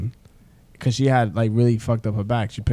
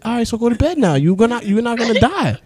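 retold reassurance; 11 semitones higher, 4 dB louder than usual. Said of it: "I said".

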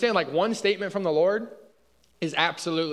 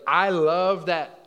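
drawn out; 2 semitones higher, 5 dB louder, much slower than usual. Shown as a demonstration. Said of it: "I wanna portray it as like".

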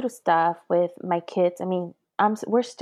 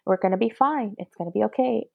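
repeated reassurance. Retold or imitated. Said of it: "I kept repeating myself".

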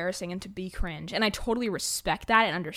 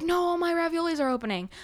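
mock anger; 9 semitones higher than usual. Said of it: "angry, like, as a joke".

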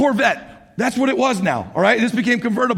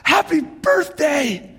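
proud ta-da; 8 semitones higher, slower than usual. Retold or imitated. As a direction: announce the surprise gift like a game show host. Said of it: "and you're like".

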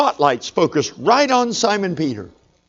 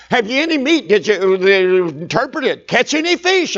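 mock call across the water, pitched high; hollering out; 4 semitones higher than usual. Jesus calling to the disciples on the boat, a mock holler. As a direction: call out to the boat, only lightly raised. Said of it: "he hollers and he cries out".

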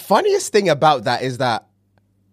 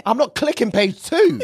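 laughing; 8 semitones higher than usual. Real, not acted. Laughing insistence, high pitch.

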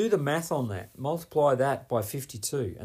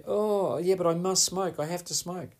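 mock denial; 5 semitones higher than usual. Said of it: "people are in denial".

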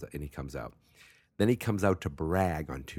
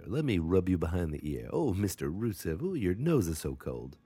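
cooing to a pet dog; doting dog owner; 2 semitones higher than usual. Pretend. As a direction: fuss over your dog with swooping baby-talk. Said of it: "like a fancy name for a dog".

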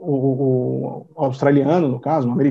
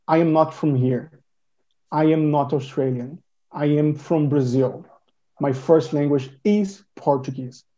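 falando devagar; 2 semitones lower than usual. Shown as a demonstration. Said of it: "Você precisa primeiro dizer".

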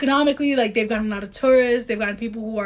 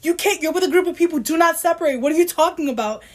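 anxious scolding; 4 semitones higher than usual. Retold or imitated. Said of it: "because I'm like".

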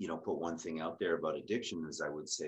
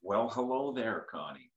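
loud, higher, drawn-out radio greeting; 6 semitones higher, 7 dB louder than usual. Real, not acted. Guest greets the podcast host, in a radio voice. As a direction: boom out a slow radio-host hello. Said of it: "there is that awesome radio voice".

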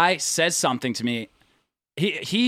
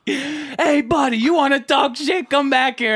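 high-pitched mock yell; taunting shout, only partly raised; retold screaming; 9 semitones higher, 4 dB louder than usual. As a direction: imitate an angry man calling someone back. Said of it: "I can hear him screaming at me".

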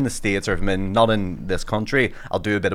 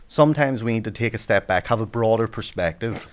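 polished inspirational keynote delivery, lightly done; keynote speaker voice. Shown as a demonstration. Comedian mocking a keynote speech to friends, lightly inspirational. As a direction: address the room like a paid motivational speaker. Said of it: "there's a sample for you".

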